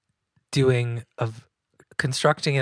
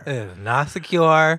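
loud, slow insistence; 3 semitones higher, 6 dB louder, slower than usual. Pretend. Mock dramatic answer.

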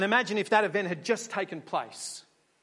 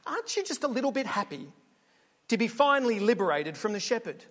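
pushy interviewer; faster than usual. Pretend. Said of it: "And then you say".

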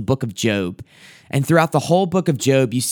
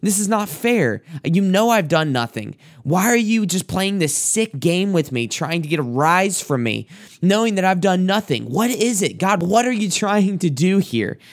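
raised, lightly voiced protest to God; pleading Job; 5 semitones higher than usual. Job pleading with God over his suffering, lightly acted higher protest. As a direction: plead like a man wronged by God, half acted. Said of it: "he's going to the Lord saying".

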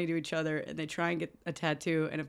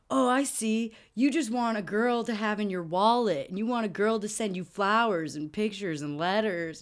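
mock taunt; 3 semitones higher than usual. Nick mocking Henry in retold scene.

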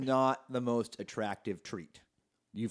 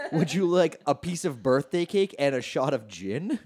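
mock offer; 4 semitones higher, 5 dB louder than usual. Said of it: "it's like".

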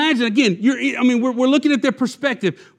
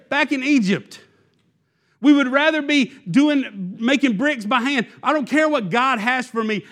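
voicing the Israelites; 4 semitones higher than usual. Yet you're standing here now going.

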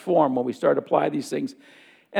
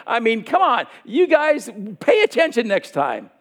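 a playfully exasperated Jesus, pitched higher, scolding half in jest; exasperated teacher scolding; 4 semitones higher than usual. Retold or imitated. Jesus teasing his apostles for not listening, exasperated mock scolding.

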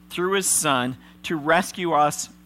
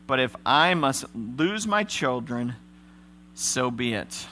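resigned Jacob; 3 semitones higher than usual. Acted. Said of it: "father Jacob finally said".

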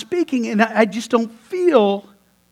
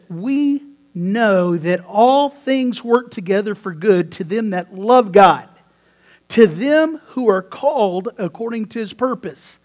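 scripture reading; 4 dB louder than usual. Shown as a demonstration. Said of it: "It says this".

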